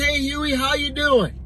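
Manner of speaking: chirpy bartender. Acted. Bartender greets duck.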